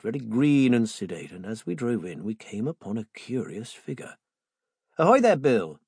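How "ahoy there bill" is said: calling out across the yard, louder; a hearty hail to a man far off; cried out. Acted. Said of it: "young Joe cried".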